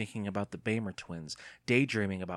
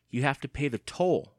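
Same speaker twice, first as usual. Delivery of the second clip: leering; 5 semitones higher, 5 dB louder than usual. A narrator's reading. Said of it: "leering at him".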